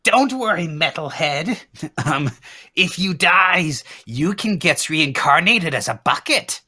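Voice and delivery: high, squeaky little creature voice; high goblin voice. Acted. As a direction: pipe up like a cheeky goblin. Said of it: "Sneakily pipes up".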